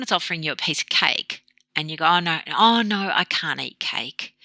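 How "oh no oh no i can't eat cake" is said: slight victim. Retold or imitated. Dieter offered a piece of cake, slight victim refusal. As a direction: drag it out like someone deprived, lightly acted. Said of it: "this kind of slight victim where you can't".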